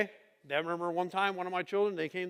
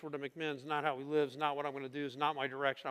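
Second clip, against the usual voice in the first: usual speaking voice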